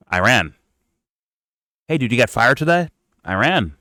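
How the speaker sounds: sarcastic Timmy impression, each Iran dropped flat; mocking Timmy. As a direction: parody a pundit whose answer is always Iran. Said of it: "Timmy just telling you".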